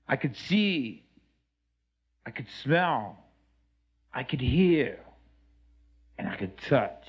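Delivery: measured spoken-word delivery with long pauses; poetic recitation. Acted. Man recounting his life bonding with Mother Nature, poetic recitation. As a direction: recite it like a personal poem, line by line.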